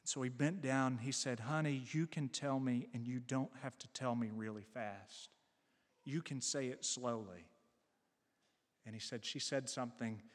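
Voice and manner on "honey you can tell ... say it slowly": softer, lowered voice of a gentle dad; lightly voiced tender father soothing his child; reassuring father. Father bends down to reassure daughter.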